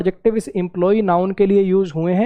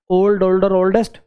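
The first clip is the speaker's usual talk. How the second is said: ओल्ड, ओल्डर, ओल्डेस्ट said word by word; each form spoken as one clean beat; syllable demo. Shown as a demonstration. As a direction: count the beats of each word aloud. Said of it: "इसको बोलते हैं".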